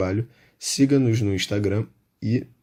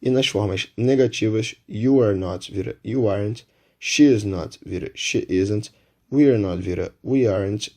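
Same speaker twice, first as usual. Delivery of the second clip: slow careful English examples. Shown as a demonstration. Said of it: "nas frases afirmativas".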